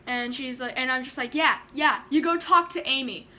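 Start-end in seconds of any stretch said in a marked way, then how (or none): 1.3-3.3 defiant comeback. Retold or imitated.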